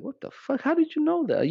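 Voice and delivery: high, amazed "What the fuck?" with the pitch jumped way up; high, astonished doorman imitation; imitating shock. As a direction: act like the doormen are stunned. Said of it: "they're like".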